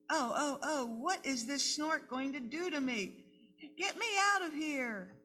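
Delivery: high, fretful little voice; scared baby bird. Acted. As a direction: panic softly, half laughing. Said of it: "baby bird scared in snort".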